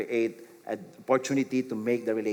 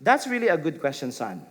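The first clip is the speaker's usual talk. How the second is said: encouraging. Shown as a demonstration. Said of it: "what does it sound like".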